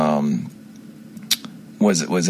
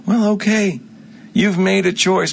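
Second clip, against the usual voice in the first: defiant retort; 10 semitones higher than usual. Real, not acted. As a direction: throw it back at them like a challenge. Rebuking those who don't care.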